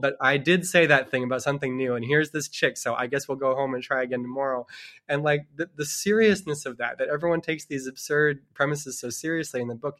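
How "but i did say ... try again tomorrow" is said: hammed-up bad king, loud then deflating; grumbling bad king. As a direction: sulk like a foiled villain. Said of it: "the bad king is like".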